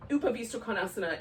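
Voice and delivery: Sanskrit pose name with an Italian lilt; Italian accent. Real, not acted. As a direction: say it as if it were Italian. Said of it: "I don't know why I use an Italian accent".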